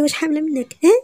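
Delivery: high, loud mocking echo; mocking shout. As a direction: throw her words back at her. Woman mimics the girl's shout. (ترديد ساخر بصوت عالي)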